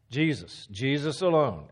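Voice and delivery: "Jesus" said, paused on, then repeated with "alone" leaned on; emphatic restatement. Shown as a demonstration. Teacher explaining the stressed word, weight on "Jesus alone". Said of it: "just emphasize different words in the text".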